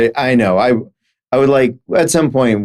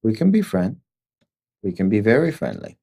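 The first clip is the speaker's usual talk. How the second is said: put-on Chinese accent; 5 dB quieter than usual. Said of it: "I apologize for my Chinese accent".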